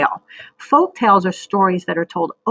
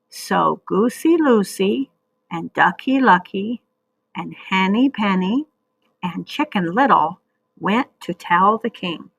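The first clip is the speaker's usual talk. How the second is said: slow read-along. Shown as a demonstration. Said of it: "So read that with me".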